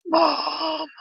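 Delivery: loud, high drawn-out call; high, loud cry for help; calling for mom. Pretend. Calls out for mom.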